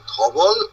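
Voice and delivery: ধবল said as one unbroken unit; joined as one. Shown as a demonstration. Teacher showing what is said together, ধবল in one piece. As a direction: run ধবল together without a break. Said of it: "একসাথে বলতে হবে".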